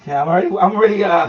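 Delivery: winded, puffing between words; out of breath. Real, not acted. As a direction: talk while catching your breath. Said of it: "huffing and puffing".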